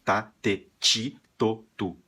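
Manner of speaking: "ti" as "tchi" again; Brazilian tchi. Shown as a demonstration. Teacher repeating the Brazilian version, a bit amused. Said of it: "mas nós somos assim".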